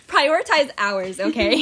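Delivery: slow, laughing plea. Real, not acted. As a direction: giggle through the words. Joking plea while laughing.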